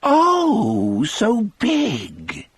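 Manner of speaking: put-on high, breathy sick old woman cry; crying out as Melly. A narrator's reading. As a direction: lift into a frail high cry. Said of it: "she cried".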